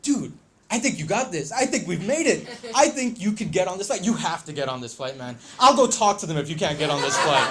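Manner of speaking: imitating an eager, insistent buddy; retold excited pep talk; excited driver. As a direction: cheer your passenger on, worked up. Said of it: "Mike's really excited".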